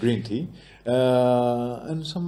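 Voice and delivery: lightly South African English, leaning British; hesitant South African accent with a British tinge. Shown as a demonstration. Guest listing breakfast drinks for the interviewer, South African accent. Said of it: "Let me test you".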